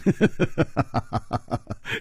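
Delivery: quiet airy chuckle trailing down; soft laugh. Acted. Chu Liuxiang teasing the new son-in-law, soft chuckle. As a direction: laugh softly to yourself. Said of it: "楚留香笑着说".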